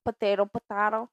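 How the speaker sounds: first potato as puh-TAY-toh, second as puh-TAH-toh; potato with AY, then potato with AH; both pronunciations. Shown as a demonstration. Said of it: "words that you can use it two ways".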